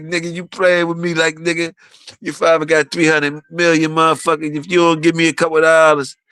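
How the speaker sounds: a hint of an exasperated rapper asking for his cut; retold plea. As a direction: lightly act out a man begging for a few dollars. Retelling a rapper pleading for money.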